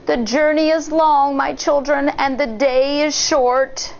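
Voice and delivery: lightly voiced fake granny; a hint of sweet old woman; wolf as granny. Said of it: "The wolf answered".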